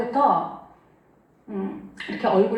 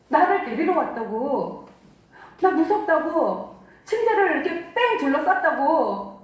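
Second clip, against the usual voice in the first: a mild echo of his panicked pleading, rising; retold terrified crying; 3 semitones higher than usual. Wife retelling her husband's night terror, a mild mock of his frightened cry. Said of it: "남편이 막 울면서, 화를 내면서, 두려워하면서".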